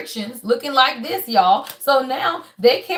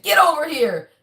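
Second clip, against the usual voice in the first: light video game catchphrase imitation; a hint of game-character summons; Mortal Kombat; 3 semitones higher than usual. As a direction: call it out like a fighting-game command. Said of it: "Now I'm hearing Mortal Kombat".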